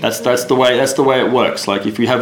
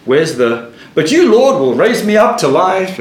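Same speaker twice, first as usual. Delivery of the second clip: mock indignant surprise; 3 semitones higher than usual. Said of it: "and you go".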